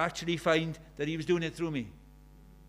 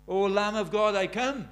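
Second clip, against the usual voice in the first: earnest plea; 3 semitones higher, 8 dB louder than usual. Acted. Sinner's plea quoted from hymn.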